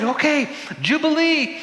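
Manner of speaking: high-pitched crowd announcement; mock-proclamation, high and forceful; proclaiming. Acting out the people's reply.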